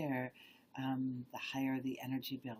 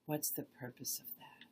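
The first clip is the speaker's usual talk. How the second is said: meditative questioning; slower than usual. Shown as a demonstration. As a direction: pose the question gently, pausing between phrases. Slowly rephrases question in demo.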